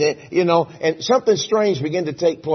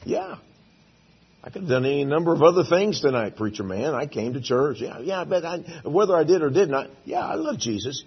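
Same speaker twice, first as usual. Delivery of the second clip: casual churchgoer. Retold or imitated. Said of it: "majority of you would say".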